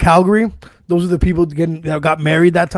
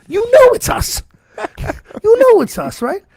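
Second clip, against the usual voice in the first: insistent; 14 semitones higher than usual. Real, not acted. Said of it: "insisting to his friend".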